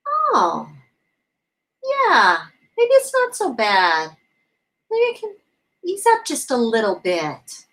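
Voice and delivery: gently easing, imitated relief; soothed relief. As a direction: let the worry drain out a little. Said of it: "You gotta soothe that energy".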